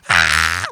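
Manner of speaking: mock cracking teen yelp; voice cracky scream. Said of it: "voice cracky scream".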